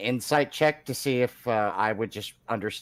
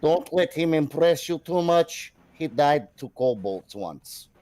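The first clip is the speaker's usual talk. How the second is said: slow mock stage whisper that is fully voiced; loud confiding aside, drawn out slowly; loud bumblebee whisper; 3 semitones higher, slower than usual. Jinjo leaning over to warn her, loud slow mock whisper. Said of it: "do his really loud, like, helicopter-sized bumblebee whisper".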